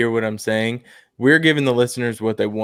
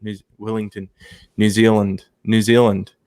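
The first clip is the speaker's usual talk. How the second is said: testing a New Zealand accent on place names; attempted New Zealand accent, feeling for the vowels; 3 semitones lower than usual. Shown as a demonstration. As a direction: try out a Kiwi accent. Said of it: "so I'll try to do it".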